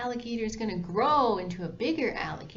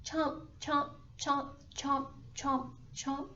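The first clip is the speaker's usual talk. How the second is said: snapping teeth; 7 semitones higher, 4 dB quieter than usual. Acted. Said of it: "And shrinking again".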